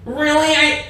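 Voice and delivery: shrill-high, loud, far-off-sounding mock freakout; hysterical neighbour. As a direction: ham up a frantic woman outraged her cycle is done. Neighbour freaking out over laundry.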